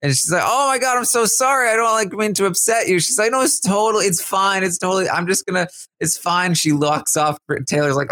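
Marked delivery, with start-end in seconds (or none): 0.4-3.0 much higher, rushed gushing sorry; flustered apology. Retold or imitated. Taylor, panicking, apologizing to upset Alyssa, high and rushed. 3.3-6.5 high, strained insisting she's fine; forced it's fine. Retold or imitated. Alyssa, hurt, insisting to Taylor she's fine, high strained.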